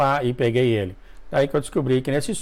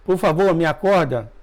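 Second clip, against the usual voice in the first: mild mock begging, a little higher; retold pleading; 4 semitones higher than usual. Dreamer face-down begging Jesus to wake him, mild pleading. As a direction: beg to be woken, lightly acted. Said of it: "caí de cara no chão e falava".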